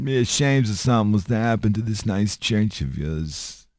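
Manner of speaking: lightly voiced mob don; a hint of a Godfather impersonation; mock mafia menace, kept restrained; mafia boss. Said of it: "head of a mafia family".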